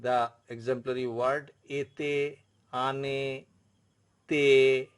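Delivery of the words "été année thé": "ete, ane, te" each ending on a held "ay"; French é endings. Shown as a demonstration. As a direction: draw out the final "ay" in "ete, ane, te". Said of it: "this type of pronunciation".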